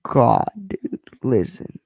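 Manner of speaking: breathy unvoiced whisper; a sudden whispered aside. Real, not acted. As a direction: drop to a hushed whisper.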